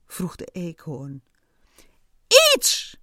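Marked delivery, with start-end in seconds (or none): 2.5-3.0 strangled shriek flying upward; voice cracking. A narrator's reading. Ant frantically answering the squirrel, voice cracking. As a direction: let the voice break on the cry. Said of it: "De stem van de mier sloeg over".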